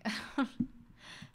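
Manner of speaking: real breathy, mostly voiceless laugh. Real, not acted. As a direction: laugh at the absurdity of it. Laughs at software calling her gay.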